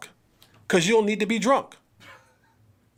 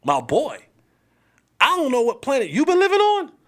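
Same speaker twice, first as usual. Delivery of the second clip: scolding a player; 4 semitones higher than usual. Retold or imitated. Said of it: "And I'm like".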